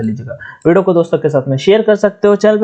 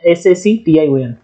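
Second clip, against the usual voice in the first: spelled out; slower than usual. Shown as a demonstration. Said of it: "ऐसे".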